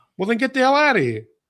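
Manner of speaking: put-on Chicago accent. Acting out a Chicago cop questioning the stabbed player: put-on Chicago accent. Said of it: "that Chicago accent trying to be slick".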